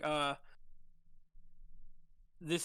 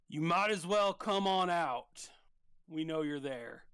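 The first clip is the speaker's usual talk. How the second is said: calling out. Acted. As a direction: call them out of hiding. Guard calls out to hiders.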